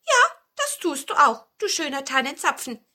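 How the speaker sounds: lightly voiced dwarf starting high; admiring dwarf. A narrator's reading. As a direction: agree admiringly, pitch easing down. (leicht gespielter, bewundernder Zwerg)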